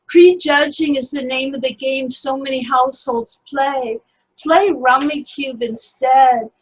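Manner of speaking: deliberate spoken-word recital, endings drawn out; poem reading. Acted. Poet reads her piece about two thousand sixteen, deliberate poem reading. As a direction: read it as verse, weighting each image.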